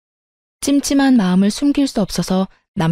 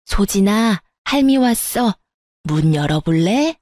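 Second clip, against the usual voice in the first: sweet, gentle grandma. A narrator's reading. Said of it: "사근사근한 목소리로 제 딸을 불렀습니다".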